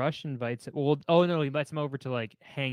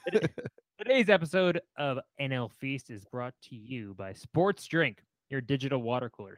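upbeat sponsor read, a bit brisk; casual podcast ad read; 2 semitones higher than usual. Acted. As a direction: sell it like a podcast host ad spot. Reads the ad plug.

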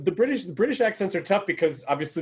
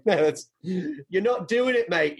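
mock British accent. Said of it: "because Brits are like".

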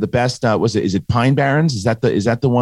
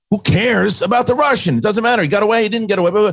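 imitating David Chase; 12 semitones higher than usual. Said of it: "And he goes".

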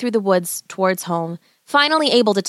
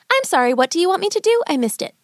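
playing dumb; 9 semitones higher, faster than usual. A narrator's reading. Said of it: "She decided to stall".

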